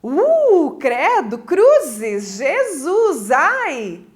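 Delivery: swooping exclamations of mock fright; hammed-up dread; demonstrated fear. Shown as a demonstration. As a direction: act spooked, leaning on each word. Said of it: "De medo".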